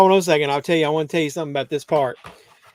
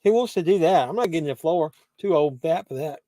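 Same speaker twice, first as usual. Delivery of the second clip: talking while crunching snacks; crunching a mouthful while talking. Real, not acted. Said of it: "Sorry if you can hear my crunching".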